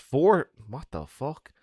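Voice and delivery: surprised. Real, not acted. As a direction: react in disbelief. Shocked at four shots.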